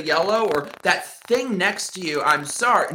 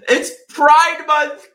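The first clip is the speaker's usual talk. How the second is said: mock outrage; 8 semitones higher, 7 dB louder, much slower than usual. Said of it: "How can you do such a thing".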